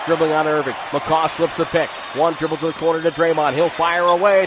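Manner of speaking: normal talking voice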